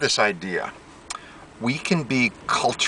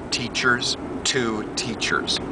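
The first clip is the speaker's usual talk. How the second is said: "Teachers to teachers" said slowly and deliberately, each word apart; spelled out slowly. Shown as a demonstration. Teacher to viewers, giving the website name, slow and careful. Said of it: "Spell it all out".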